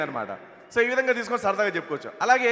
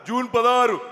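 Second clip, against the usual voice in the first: Hanumantha Rao impression; 2 semitones higher, 4 dB louder than usual. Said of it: "హనుమంతరావు గారి bit".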